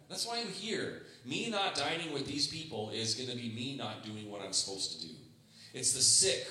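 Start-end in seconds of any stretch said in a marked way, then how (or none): 0.1-5.1 insistent Jesus. Retold or imitated. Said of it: "He's like".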